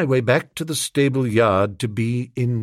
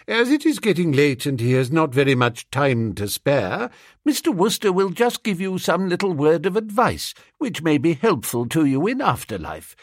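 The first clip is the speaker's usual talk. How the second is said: a lightly voiced prim headmistress, higher; a hint of a brisk schoolmistress winding up assembly; 5 semitones higher than usual. Headmistress to her schoolgirls, lightly voiced and brisk.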